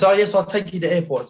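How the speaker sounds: a hint of an obliging foreign cabbie; taxi driver. Retold driver reassuring passenger.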